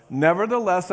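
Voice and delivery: Nevertheless rung out loud and falling; loud proclaimed nevertheless. Shown as a demonstration. Preacher proclaiming Nevertheless to the congregation. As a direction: call out Nevertheless to the church. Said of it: "say nevertheless".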